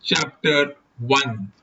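measured audiobook reading; story narration. A narrator's reading. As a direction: read the novel aloud in deliberate, separated phrases. Reads a detective novel aloud.

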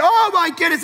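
mock amazement. More stuffies turn up.

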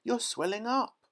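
very high, loud, rising shriek; panicked mother, voice climbing high; scream. A narrator's reading. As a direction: shriek it in disbelief. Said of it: "screamed Missus Beauregard".

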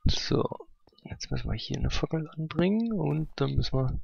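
tickle in the nose before sneezing; about to sneeze. Real, not acted. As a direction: talk with a sneeze coming. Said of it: "oh, ich muss niesen". (kurz vor dem Niesen)

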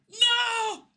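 high, loud shouted no. Real, not acted. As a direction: yell it in despair. Losing the final dice roll.

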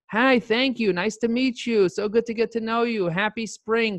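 cheery greeting. Shown as a demonstration. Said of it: "start with greeting".

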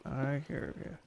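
soft, teasing reply to the skeleton; softly. Real, not acted. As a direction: drop it to a quiet tease. Talking to an unseen skeleton.

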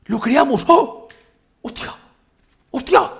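high, loud bursts of amazement; excited shouts. Real, not acted. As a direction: cry out in delight at the build. Construye el refugio, emocionado. (gritos de asombro, agudos y fuertes)

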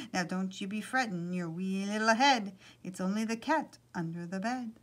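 lightly attempted Irish leprechaun lilt; amateur Irish accent for a leprechaun; poor Irish accent. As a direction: try a homely Irish brogue, not quite convincing. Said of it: "My poor Irish accent".

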